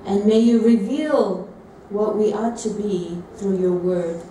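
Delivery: slow, measured spoken prayer. Real, not acted. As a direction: pray aloud slowly, phrase by phrase. Prays aloud to God.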